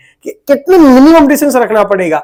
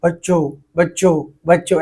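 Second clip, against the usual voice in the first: each बच्चों softer, like an echo dying away; fading echo; 3 semitones lower, 5 dB quieter than usual. Shown as a demonstration. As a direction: repeat बच्चों quieter each time as if bouncing off walls. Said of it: "ऐसे सुनाई देता आपको".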